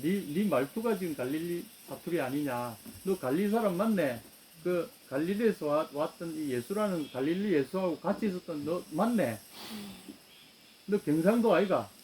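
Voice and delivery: accusing bystander in thick Gyeongsang dialect; 경상도 사투리로 따지듯; Gyeongsang dialect accusation. Acted. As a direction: jab at him in Gyeongsang dialect, rising. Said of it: "서울 가면은 우리 말 못 속입니다".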